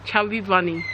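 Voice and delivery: cheeks stuffed with marshmallows; mouth full. Real, not acted. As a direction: talk around a full mouth. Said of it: "fit as many marshmallows in your mouth".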